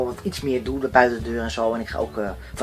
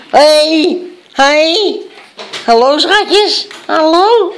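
excited puppy talk; 12 semitones higher, 6 dB louder, much slower than usual. Real, not acted. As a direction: gush over the puppies. Greeting puppies excitedly.

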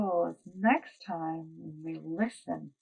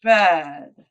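grumpy pig; 4 dB louder, slower than usual. Acted. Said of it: "squealed Pig".

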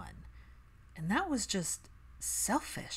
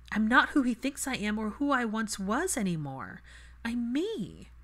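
lightly voiced, a touch higher; Hermione's voice; 4 semitones higher, 4 dB louder than usual. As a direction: candid self-assessment, earnest. Hermione's emotional outburst.

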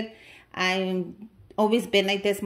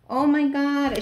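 squealing with delight, higher and louder; too excited; 6 semitones higher, 6 dB louder, slower than usual. Real, not acted. Opening a friend's gift, squealing with excitement. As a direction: burst out in real excitement. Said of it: "I got too excited".

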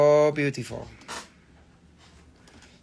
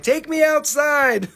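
dog's voice; 9 semitones higher, 3 dB louder, slower than usual. Pretend. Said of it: "He's like".

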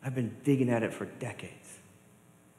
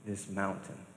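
quiet prayer; 7 dB quieter, much slower than usual. Shown as a demonstration. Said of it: "go to God in prayer and say".

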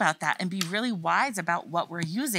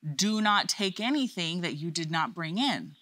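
teacher voice; 3 semitones lower than usual. Shown as a demonstration. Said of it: "in my teacher voice".

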